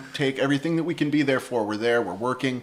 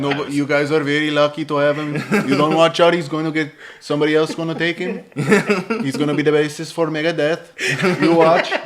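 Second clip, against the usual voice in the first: lightly imitated Colombian accent, insistent; Gustavo; 2 semitones higher, 4 dB louder than usual. Producer warning band that Simon will be poached, mock Colombian accent. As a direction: warn them as an admiring Colombian friend. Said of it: "Gustavo showed us that".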